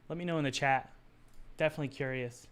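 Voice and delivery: tired, hoarse voice. Real, not acted. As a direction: talk through a fading, hoarse voice. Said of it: "I'm kinda losing my voice today".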